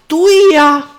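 sudden high, loud cry of delight; eager exclamation. Acted. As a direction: jump at the chance, thrilled. Suitor slaps thigh eagerly.

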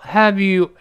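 "have you" joined as one word; linked have you. Shown as a demonstration. Teacher shows "have you" must join up, linked. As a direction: link the v of "have" straight into "you". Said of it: "have you一定连到一块儿".

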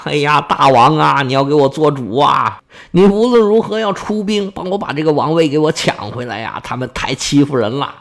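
mock-tearful wail, dragging the word endings; hammed-up sobbing plea to a king; tearful pleading. Old prince begs the king for troops, mock tearful pleading. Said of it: "是鼻涕一把泪一把呀".

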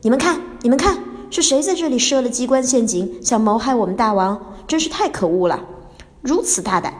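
angry ghost shouting at the trap. Acted. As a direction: scold the hidden trap as an outrage. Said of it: "他很生气地说".

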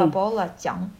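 learner repeats 八宝辣酱 in Shanghai dialect; careful Shanghainese 八宝辣酱; Shanghainese pronunciation. Shown as a demonstration. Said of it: "用上海话讲".

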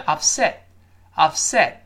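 upset with the t held back; unreleased final t. Shown as a demonstration. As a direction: stop the t of upset on the tongue tip. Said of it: "失去爆破线的". (upset末尾t失去爆破)

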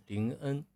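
林恩 said as Lin-en with a front nasal n; 林恩 ending in a crisp n; 林恩 with a clear front-nasal en. Shown as a demonstration. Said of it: "前鼻啊".

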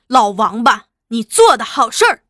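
loud accusing yell; furious shout. Acted. Son yelling at his father as he punches again. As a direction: bark the insult with the punch.

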